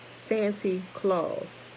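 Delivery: slow, drawn-out Santy Claus; Dutch-accented Saint Nicholas. Shown as a demonstration. Rereading to the class, slowly demonstrating the Dutch sound. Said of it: "it sounded like this".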